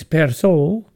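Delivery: "perso" said with a light Italian accent; a hint of Italian accent on "perso". Shown as a demonstration. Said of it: "A little Italian accent for the perso".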